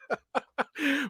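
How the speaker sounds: high, breathless burst of laughter; real giggling laugh. Real, not acted. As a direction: crack up after your own impression. Laughs after own reenactment.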